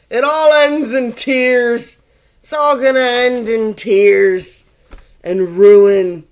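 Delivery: dramatic doom. Acted. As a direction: proclaim ruin like a grim oracle. Dramatic tarot doom pronouncement.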